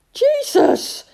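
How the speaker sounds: very high, loud exasperated shout; shouted repeat. A narrator's reading. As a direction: shout it for a deaf listener. Repeating louder for deaf Badger.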